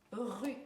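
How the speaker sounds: RUE said alone as one separate syllable; syllable sounded out. Shown as a demonstration. Teacher showing the second syllable of morue, RUE sounded out. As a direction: say RUE by itself, distinctly. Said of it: "Deuxième syllabe".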